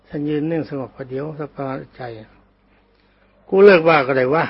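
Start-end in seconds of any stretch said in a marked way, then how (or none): 2.8-4.4 loud and very slow; slow shouted give-in; shouted reply. Retold or imitated. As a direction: call it out loud, dragging each word. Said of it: "เสียงจ้องตะโกนเข้ามา".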